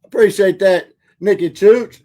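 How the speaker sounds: ordinary talk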